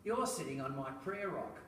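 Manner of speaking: imitated New Zealand accent. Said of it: "says this with a New Zealand accent".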